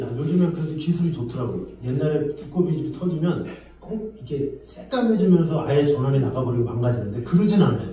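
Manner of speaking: usual speaking voice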